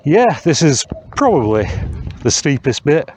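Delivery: panting slightly from the climb; breathless between words; out of breath. Real, not acted. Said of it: "I'm already out of breath".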